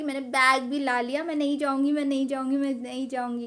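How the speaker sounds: mildly whiny-insistent re-enactment, rattled off in repeats; stubborn protest. Retold or imitated. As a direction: play a kid refusing to budge. Child protests to uncle.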